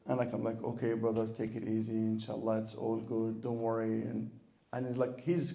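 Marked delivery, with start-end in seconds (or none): 0.6-4.0 lightly soothing, low and even; calm down a sobbing brother, understated; retold reassurance.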